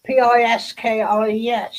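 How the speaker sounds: each letter of P I S K I E S said separately; spelled out. Shown as a demonstration. Spelling the Cornish word out for friends, letter by letter. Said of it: "they call piskies".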